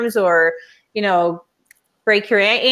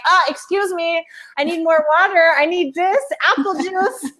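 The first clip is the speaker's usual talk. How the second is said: high, sing-song asking voice; mock sweet passenger voice; 9 semitones higher than usual. Mother pestering the flight attendant, in a high sing-song. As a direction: play the needy passenger, all sugar.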